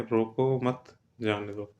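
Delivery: "रोको" set apart, then slow "मत जाने दो"; pause after रोको. Shown as a demonstration. Teacher reads the second sentence to students, pausing after "रोको". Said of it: "रोको के बाद लगा दिया है".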